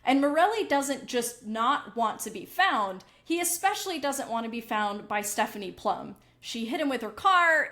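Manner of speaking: crisp news anchor read; newscaster voice. Acted. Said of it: "I had to turn on my newscaster voice".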